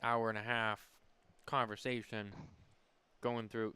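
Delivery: talking around a stem in the mouth; mouth full. Real, not acted. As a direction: speak with something in your mouth. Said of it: "Sorry, I got a stem in my mouth".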